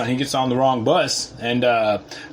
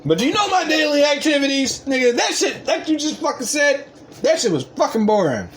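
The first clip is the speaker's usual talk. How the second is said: much higher, shouted arrogant rant; not very humble; 13 semitones higher than usual. Real, not acted. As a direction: yell it like an untouchable big shot. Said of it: "That's not very humble".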